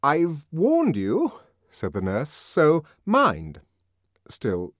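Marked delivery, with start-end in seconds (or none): 0.0-1.3 high, loud, very slow and deliberate; shrill uncertain dignity. A narrator's reading. Nurse recovering after her fright, shrill and shaky dignity. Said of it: "with a dignity that was a trifle shrill and uncertain". 2.3-3.6 high, loud, very slow and deliberate; shrill uncertain dignity. A narrator's reading. Nurse recovering after her fright, shrill and shaky dignity. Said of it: "a trifle shrill and uncertain".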